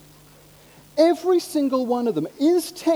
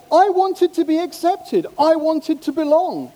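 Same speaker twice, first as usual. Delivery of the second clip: acted confession; 4 semitones higher, 4 dB louder than usual. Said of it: "they say".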